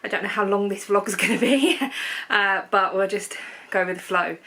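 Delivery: breathless after running downstairs; panting between words; out of breath. Real, not acted. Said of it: "Sorry I'm out of breath".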